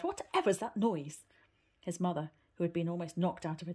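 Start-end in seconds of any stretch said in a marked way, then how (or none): 0.0-1.2 put-on startled old woman, slower and higher; jolted by a sudden crash; alarmed cry. Granny startled by thrown sticks, alarmed cry. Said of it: "Granny jumped up in alarm and cried".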